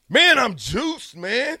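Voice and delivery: high, loud and slow, hyped up; pumped, stretching every word; excited. Real, not acted. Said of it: "I can tell".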